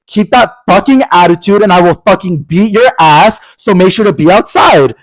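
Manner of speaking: mock threatening, laying down the law; retold aggression. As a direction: retell an aggressive warning, leaning on the swearing. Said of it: "that's aggressive".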